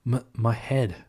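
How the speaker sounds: drowsy, just waking up; groggy waking. Acted. Tails waking up from his slumber, groggy. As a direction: mumble it half asleep. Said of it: "while waking up from his slumber".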